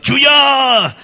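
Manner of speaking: full-voiced high shout; loud, high congregational yell. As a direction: bellow it drawn out like a worship cry. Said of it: "would yell out".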